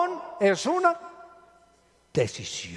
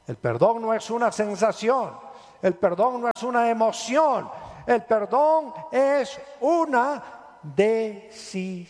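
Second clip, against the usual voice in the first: preaching shout; 3 semitones higher than usual. Real, not acted. Preacher drives home point.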